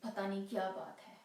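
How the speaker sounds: stage lover, wavering between confidence and brooding; restless waiting lover. Acted. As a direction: reassure yourself while counting the minutes.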